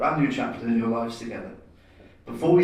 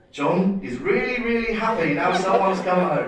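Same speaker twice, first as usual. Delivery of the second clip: mock gushing; 7 semitones higher, 3 dB louder than usual. Reading a happy Facebook post.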